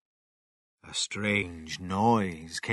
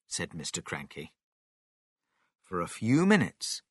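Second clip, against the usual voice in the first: ordinary delivery, nothing marked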